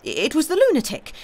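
high, loud insistence on the lunatic; wild fatigue. A narrator's reading. Bohun insisting on the culprit, wild cry. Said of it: "with a sort of wild fatigue".

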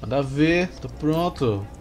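imitating a carioca unit voice; lightly voiced Rio accent echo. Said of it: "você tá com voz de carioca".

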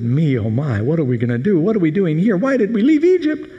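moan, then wail in panic; moaning people. Retold or imitated. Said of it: "the people began to moan".

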